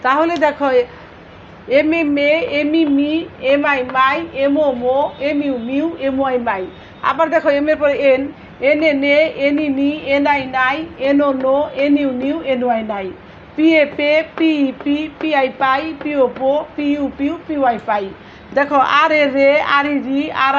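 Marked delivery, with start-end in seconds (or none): 1.8-6.6 evenly measured spelling chant, dropping at the end of each set; syllable drill recitation. Shown as a demonstration. 8.7-18.0 evenly measured spelling chant, dropping at the end of each set; syllable drill recitation. Shown as a demonstration.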